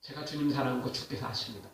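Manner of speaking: very soft, low, worried answer; troubled reply. Retold or imitated. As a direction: imitate a disciple answering after anxious hesitation, voice sunk low. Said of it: "고민하다가 근심하다가 또 대답해요". (근심에 잠긴 듯 낮고 작게 흉내 낸 대답)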